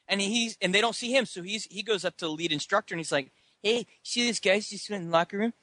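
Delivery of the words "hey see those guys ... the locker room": higher-pitched, whiny tattletale; mock tattling kid. Scotty telling the lead instructor he got beaten, mock whiny tattling. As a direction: complain like a kid showing off bruises.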